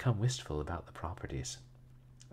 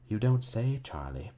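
loud, raised mock astonishment; sarcastic; 5 semitones higher, 6 dB louder than usual. A narrator's reading. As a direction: feign amazement sarcastically. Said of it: "replied Miss Fuller sarcastically".

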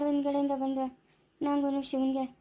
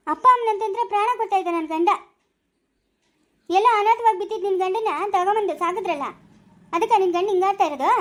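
bitter accusation; 3 semitones higher, 3 dB louder than usual. Acted. Accusing wife in hospital quarrel.

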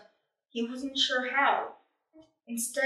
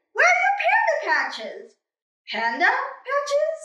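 puzzled high questions; 13 semitones higher, 5 dB louder than usual. Acted.

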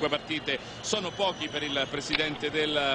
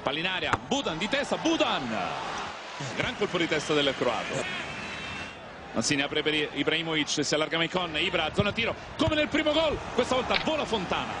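play-by-play commentary; 2 semitones higher than usual. Acted.

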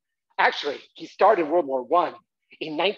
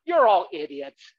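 dismissive brother; 4 dB louder, slower than usual. Retold or imitated. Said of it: "he'd say".

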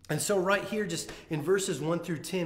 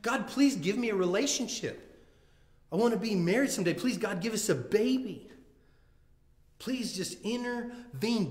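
higher, pleading plea to God; pleading prayer; 5 semitones higher than usual. Retold or imitated. Imagined believer begging God for help, higher pleading voice. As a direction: beg God for a baby, raw and urgent. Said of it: "And you think".

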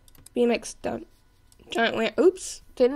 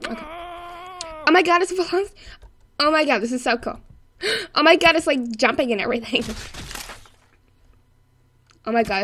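breathless "oh my god" gushing; gushing put-on voice; faster than usual. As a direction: gush in a playful put-on way. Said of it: "I'm gonna stop talking like that".

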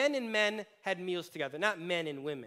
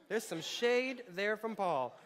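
laughing; 3 semitones higher, slower than usual. Real, not acted. Repeats aside, laughing.

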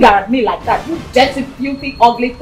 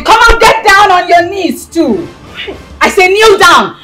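raised, imperious order; angry command; 4 semitones higher than usual. Acted. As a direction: force them to their knees with the voice. Orders another visitor to kneel.

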